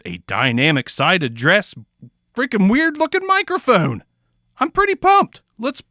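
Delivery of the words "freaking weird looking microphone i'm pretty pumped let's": high-pitched excited squeal; giddy high voice. Real, not acted. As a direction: gush about the odd mic. Excited mic reveal.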